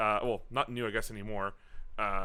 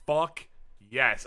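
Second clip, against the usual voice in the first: celebratory shout; 6 dB louder than usual. Retold or imitated. Retold clutch win celebration.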